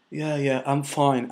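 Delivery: lightly voiced ill driver, soft and weak; weak sick man. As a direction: brush it off though you're about to pass out.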